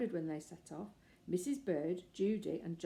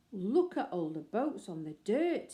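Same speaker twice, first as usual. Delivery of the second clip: excited cry; 6 dB louder than usual. Acted. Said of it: "he cried".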